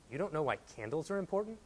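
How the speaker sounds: retold with a dry, flat delivery; deadpan. Pastor Sam to young husband, dry deadpan.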